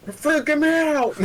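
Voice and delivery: very high, loud mock squeal; hammed-up falsetto panic with laughter; imitated freak-out. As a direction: squeal it, then crack up. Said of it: "being like".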